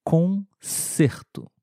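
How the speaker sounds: Concerto stretched very slowly, closed e; slow model word. Shown as a demonstration. Teacher repeats Concerto slowly for the class. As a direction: pronounce Concerto slowly, syllable by syllable. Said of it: "escrito com a letra C no meio da palavra".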